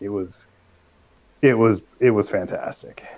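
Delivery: hushed, awed whisper. Real, not acted. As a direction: whisper it like a secret treasure. Raving about a show.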